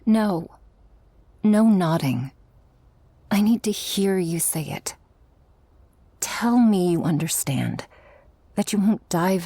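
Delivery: firm insistence. Acted. Demanding partner promise aloud.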